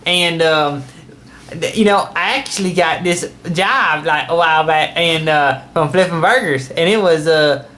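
Uncle Jim Bob voice. Acted. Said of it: "my Uncle Jim Bob".

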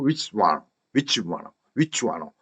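"위치 완화" run off as one short unit; quick reduced phrase. Shown as a demonstration. Teacher drills which is one of, "위치 완화" compressed. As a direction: rattle "위치 완화" together. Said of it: "그 속도로".

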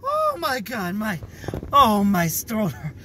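gasping after laughing fit; winded, laughing too hard; breathless from laughing. Real, not acted. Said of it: "I can't breathe right now".

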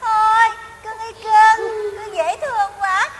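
slow, cajoling pet talk; drawn-out, wheedling endearments; coaxing sweet talk. Retold or imitated. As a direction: coax it like a darling pet. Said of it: "ta mới nói với con cọp như nè".

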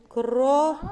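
КРОКОДИЛ in drawn syllables, long stressed ДИИЛ; calling the word out. Shown as a demonstration. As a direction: call out КРОКОДИЛ, stretching it to the last syllable. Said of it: "Як ти покликала?". (протяжно кличе: «кро-ко-ДИИЛ»)

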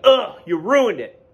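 loud, high, drawn-out mock disgust; exasperated groan. Listeners to the kid who spoiled it, exasperated. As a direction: groan it slowly, playing fed-up listeners. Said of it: "We're all like".

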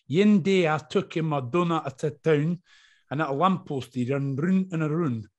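put-on a light Glaswegian lilt on a kids' rhyme; sing-song recitation with a hint of Glaswegian; recited Scottish poem. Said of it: "they all have to do a Scottish poem".

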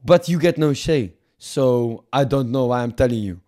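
haughty mock French negotiator; put-on French accent. French envoy denying the host any say, French accent. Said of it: "Fuck this French accent".

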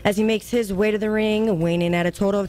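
high, slow, booming ring intro; ring announcer voice. Shown as a demonstration. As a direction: announce him into the ring, stretching the names. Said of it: "in your announcer voice".

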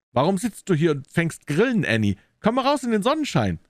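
high-pitched, lightly called invitation; brother calling out. A narrator's reading. Brother calls his sister outside, lightly calling out. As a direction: call her out, voice lifted high. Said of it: "rief ihr Bruder".

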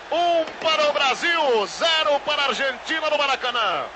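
excited goal commentary. Real, not acted. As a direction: announce the score with a roar. Score announced after goal.

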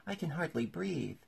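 high-pitched squeezed complaint; complaining Dormouse. A narrator's reading.

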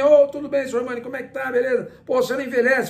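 lightly voiced jovial official; imitating the cheerful president. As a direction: play the beaming federation president glad to see him. Retold friendly greeting from president.

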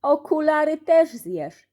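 high, loud, slow menacing yell. Acted. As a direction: drag out the threat, high and loud. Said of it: "wrzasnął Kleofas".

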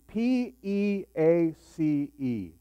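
"P E A C E" spelled out slowly letter by letter. Shown as a demonstration. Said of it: "We're talking about peace".

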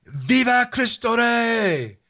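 high, drawn-out battle cry; rallying war cry. Retold or imitated. Retelling the Cristeros crying out to the revolutionaries, high and drawn out. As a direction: call out like a horseman charging in. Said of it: "the Cristeros would yell out".

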